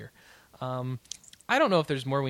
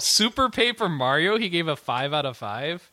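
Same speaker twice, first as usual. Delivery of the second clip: surprised; 3 semitones higher, 4 dB louder than usual. Real, not acted. Shocked at the review score.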